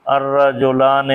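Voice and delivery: الرجلان said slowly, each syllable drawn out for students; slow Arabic pronunciation. Shown as a demonstration. Teacher to students, modelling the dual form: slow careful الرجلان. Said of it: "تو یہ ہو جائے گا".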